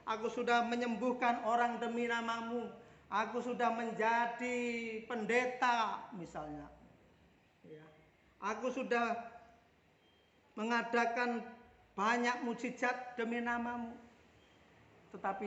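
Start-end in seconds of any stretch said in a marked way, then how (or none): 0.1-6.0 a hint of a self-justifying believer, higher; mildly voiced plea of someone listing deeds; lightly acted protest to God; protesting claimant. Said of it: "banyak orang berseru-seru". 8.4-13.9 a hint of a self-justifying believer, higher; mildly voiced plea of someone listing deeds; lightly acted protest to God; protesting claimant. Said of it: "banyak orang berseru-seru".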